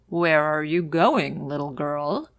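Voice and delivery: wolf's voice. Acted. Wolf questions the girl.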